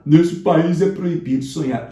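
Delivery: melodramatic, slow, "é" stressed in a put-on voice; mock exaggeration. Teacher mocking the poet's exaggerated conclusion, hammed-up. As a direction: ham up the over-the-top complaint. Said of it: "essa conclusão exagerada".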